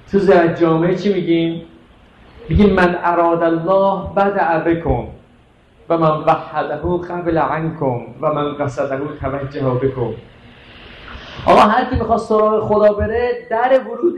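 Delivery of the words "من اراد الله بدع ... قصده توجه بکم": slow, measured Arabic recitation, sinking lower; Arabic prayer recitation. Real, not acted. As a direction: recite the ziyarat slowly.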